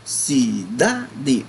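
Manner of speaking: "Cidade" drawn out syllable by syllable, DA standing out; stress on DA. Shown as a demonstration. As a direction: say "Cidade" slowly as si-DA-de, leaning on DA. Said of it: "Observa que o da se destaca".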